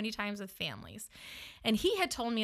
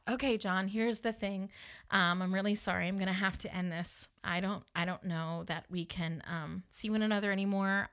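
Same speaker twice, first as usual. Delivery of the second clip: soft, lower letdown; gentle breakup speech; 3 semitones lower, 5 dB quieter than usual. Retold or imitated. Woman quietly breaking up with her date, gently apologetic. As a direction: let them down quietly and apologetically.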